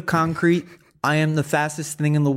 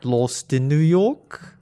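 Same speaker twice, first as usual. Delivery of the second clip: bad Australian accent. Guest posing as Tom Holland in a bad Australian accent. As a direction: play a clumsy fake Australian. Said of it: "your accent is bloody ridiculous".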